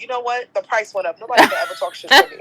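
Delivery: fast, loud laughing brag; giddy boast. Retold or imitated. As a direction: gloat with a laugh, half joking. Retold joke after being called beautiful.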